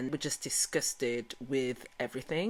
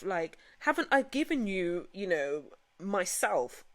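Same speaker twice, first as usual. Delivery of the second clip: mimicking his upset plea; 9 semitones higher, 4 dB louder than usual. Retold distressed plea, high.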